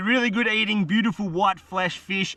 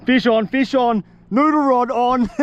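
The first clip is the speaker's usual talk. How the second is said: louder, higher, slow call of triumph; excited shout; 5 semitones higher, 5 dB louder, slower than usual. Real, not acted. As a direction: yell out the catch. Fish hooked, calling out.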